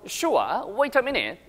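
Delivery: British reply with a crisp t in "wait"; British English pronunciation demo; British accent. Shown as a demonstration. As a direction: answer like a Brit, no r on "Sure". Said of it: "이렇게 들립니다".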